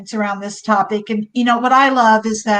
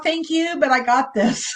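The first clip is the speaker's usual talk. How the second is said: laughing brush-off; 3 semitones higher than usual. Retold or imitated. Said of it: "you know".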